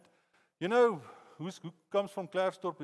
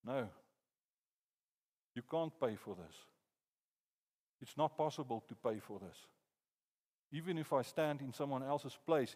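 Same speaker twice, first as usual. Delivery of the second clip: solemn judge; 4 semitones lower, 7 dB quieter than usual. Retold or imitated. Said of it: "the judge looks at us and going".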